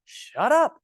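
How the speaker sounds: a sharp shut-up; mock snap. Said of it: "I wanna say".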